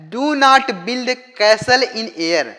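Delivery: slow, loud and high, every word weighed; emphatic moral. Shown as a demonstration. Teacher announcing the story's moral to viewers, slow and emphatic. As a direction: proclaim the moral slowly and grandly.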